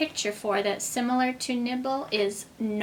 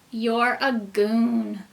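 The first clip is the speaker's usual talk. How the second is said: slow, final fairy verdict; 3 dB louder, much slower than usual. Acted. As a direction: pronounce the sentence slowly. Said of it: "and she said".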